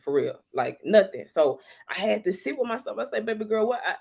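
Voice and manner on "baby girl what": put-on higher, soft baby-girl coo; soothing self-talk. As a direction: coax yourself gently. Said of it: "It's me talking to myself".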